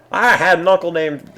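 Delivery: high, loud attempted comedian impression; Bill Cosby. Streamer botching a requested celebrity impression for viewers, high-pitched mimicry. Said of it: "pull off a passable Bill Cosby".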